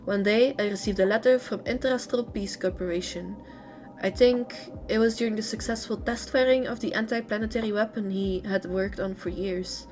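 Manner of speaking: lively read-aloud intonation. A narrator's reading. Streamer reading a character's story to viewers, read-aloud narration. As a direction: read game lore out in phrases.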